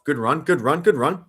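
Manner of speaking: excited play call. Real, not acted. Reacting live to a play.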